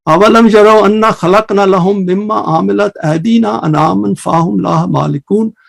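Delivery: measured Arabic verse recitation; lightly intoned scripture in Arabic; Quran recitation. Acted.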